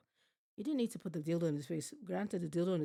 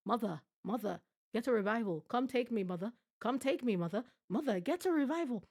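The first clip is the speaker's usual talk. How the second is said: higher, whiny mock plea for his mother; scared child begging for mommy; 4 semitones higher, 3 dB louder than usual. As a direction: play him as a frightened kid crying for mom. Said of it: "He's like".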